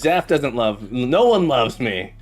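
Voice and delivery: low, slow put-on sulk; mock dejected. Streamer pretends the viewer rejected them, mock dejected. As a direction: play at being unloved. Mock letdown, then just kidding.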